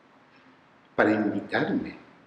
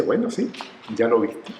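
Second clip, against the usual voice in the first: imitating cocky student. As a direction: toss it off brazenly, pitched up at the start. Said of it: "así muy sobrada". (imitando a una chica muy sobrada)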